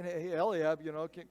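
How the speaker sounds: mock-weary younger brother; imitated exasperated sarcasm; eye-rolling. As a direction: talk back with a mild eye-roll. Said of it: "he's rolling his eyes and saying".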